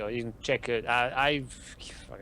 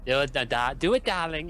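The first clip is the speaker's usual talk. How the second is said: odd put-on voice; slower than usual. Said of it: "What kind of voice was that?".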